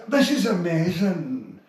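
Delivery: slow, stretched words fading quiet at the end; Billy Connolly. Shown as a demonstration. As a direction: lengthen each word, let it die away. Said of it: "It goes right quiet at the end".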